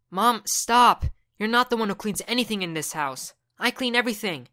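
high, loud defiant shout; shouting back. Acted. Son shouts back at mom.

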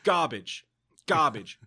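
mock scolding a cook in a British accent; Gordon Ramsay impression. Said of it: "Adam to do it as Gordon Ramsay".

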